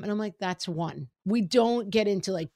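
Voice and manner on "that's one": neutral and calm. Retold or imitated. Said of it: "keep it neutral and calm".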